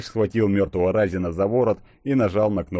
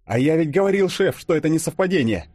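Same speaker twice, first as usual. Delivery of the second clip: eager exclamation, raised voice; exclaiming; 10 semitones higher, 4 dB louder than usual. A narrator's reading. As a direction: burst out with it. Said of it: "воскликнул Фадеев".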